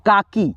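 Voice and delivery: काकी with a light, unstretched की; short soft ee. Shown as a demonstration. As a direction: let the ee in काकी fall away. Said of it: "इसका sound slowly है".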